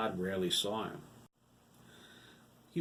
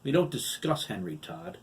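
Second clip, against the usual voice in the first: calm; 7 semitones higher, 3 dB louder than usual. A narrator's reading. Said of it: "instantly calm again".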